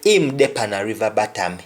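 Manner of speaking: "He dey pan a river bottom" in a Jamaican Patois lilt, "bottom" as "batam"; matter-of-fact Patois statement. Shown as a demonstration. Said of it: "somebody will say".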